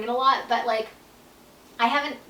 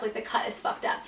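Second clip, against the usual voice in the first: dismayed whisper; 6 dB quieter than usual. Retold or imitated. Panicked reply to husband.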